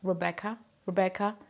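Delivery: Rebecca with an untrilled English R; English pronunciation. Shown as a demonstration. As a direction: try Rebecca the English way, hard b. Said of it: "something like that".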